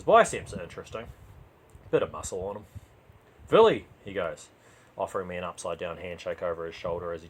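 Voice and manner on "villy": driver's voice. Acted. Driver introduces himself.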